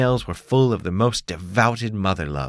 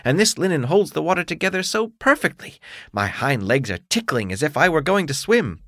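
a happy frog croaking its joy; 9 semitones higher than usual. Acted. Frog praises the rain.

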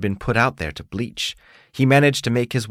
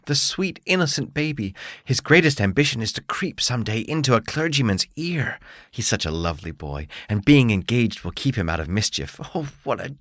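proud, gushing earwig mother, higher; doting mother voice; 4 semitones higher than usual. Acted. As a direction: gush over your darling son.

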